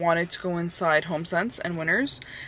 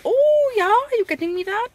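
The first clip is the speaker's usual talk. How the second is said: mock boyfriend voice; 7 dB louder than usual. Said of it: "he might look back ... be like".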